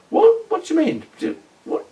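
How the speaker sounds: high-pitched, stunned disbelief, re-enacted; baffled, faltering retort, pitched right up; befuddled. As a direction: act out being lost for words. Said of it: "completely and totally befuddled".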